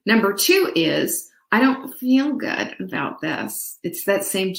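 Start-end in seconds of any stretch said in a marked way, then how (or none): 1.5-3.8 Fran Drescher voice. Retold or imitated. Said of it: "it's that same Fran Drescher voice".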